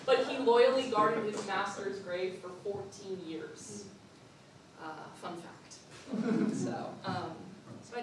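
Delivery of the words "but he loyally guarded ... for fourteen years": laughing. Real, not acted. Laughing while telling fun fact.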